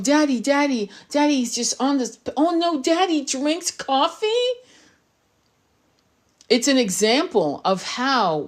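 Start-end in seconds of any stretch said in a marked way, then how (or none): 0.0-4.3 high, childlike mock whine about Daddy; childish whiny mockery. Mocking followers who idolise teachers, childish whine. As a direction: whine like a child shocked at her father. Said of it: "New Age toxicity of".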